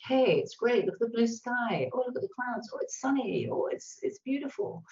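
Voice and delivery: lightly acted upbeat exclamations; soft, mildly cheerful example. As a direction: sound gently delighted by small everyday things. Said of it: "upbeat language".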